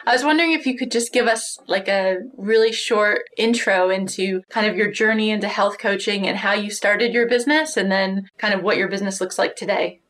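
tinny, lo-fi recorded call; poor audio quality. Real, not acted. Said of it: "less than stellar, um, audio quality".

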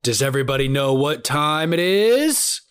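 booming ringmaster intro. Acted. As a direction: announce it like a circus ringmaster. Announcer-style intro to podcast.

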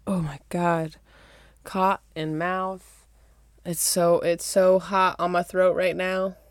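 muffled, speaking into a cup; talking into a glass. Real, not acted. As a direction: voice boxed in by a cup. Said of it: "'cause I was talking into the cup".

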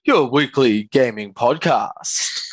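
slow, big announcer intro; fighting game announcer. Acted. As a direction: hype up the show like a ring announcer. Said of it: "commentator announcer voice".

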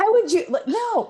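high-pitched laugh through the words; laughing disbelief. Retold or imitated. Support-group leader answering woman's doubtful question, laughing disbelief. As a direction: retell an incredulous no, laughing.

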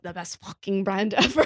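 light mock French accent, laughing; a weak imitation of a French accent. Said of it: "I have no idea how to do a French accent".

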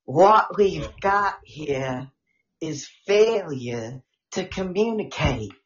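movie line. Retold or imitated. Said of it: "keep going with the movie lines".

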